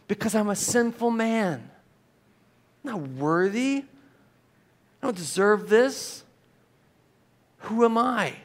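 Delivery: understated, humbled plea; pleading. Acted. Preacher voices Peter kneeling before Jesus, understated pleading. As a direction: plead unworthiness in short, separate phrases. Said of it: "he's pleading".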